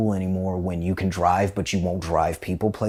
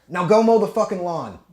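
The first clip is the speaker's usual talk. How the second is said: dad ordering; 11 semitones higher, 4 dB louder than usual. Retold or imitated. Dad's order retold.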